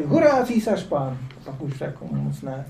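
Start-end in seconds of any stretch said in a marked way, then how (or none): 0.0-1.2 higher, slow mock cheer; cheering the emperor. Crowds hailing the emperor, slow raised cheer. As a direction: hail the emperor like a loyal crowd. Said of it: "Tam křičeli".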